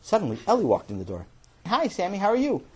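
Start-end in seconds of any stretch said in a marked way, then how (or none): 1.7-2.6 high, lilting hello; cheery greeting. Acted. Ellie walking in on Sammy, high cheery greeting. Sister figure walks in greeting.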